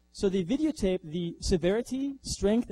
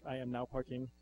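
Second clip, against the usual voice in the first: robot announcement; 5 semitones lower, 9 dB quieter than usual. Retold or imitated. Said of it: "it says on the back".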